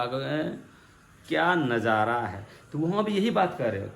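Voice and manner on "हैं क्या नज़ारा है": disappointed sarcasm. Shown as a demonstration. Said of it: "तुमको बहुत ख़राब लगा".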